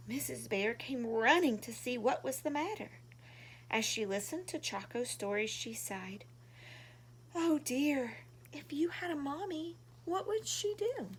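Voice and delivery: gentle storybook reading voice; reading to children. A narrator's reading. Reading a picture book to young viewers, gently. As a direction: read it warmly like to little kids.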